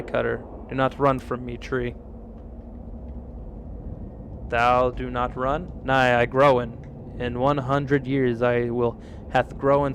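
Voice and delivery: lightly voiced solemn talking tree; archaic tree voice. Streamer voicing a tree accusing the woodcutter, solemn. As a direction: speak like an old-fashioned forest spirit, grave.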